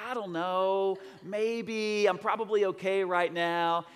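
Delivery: acted-out hesitant reply; mock uncertainty. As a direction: waver as if weighing it up. Voices unsure mother on phone.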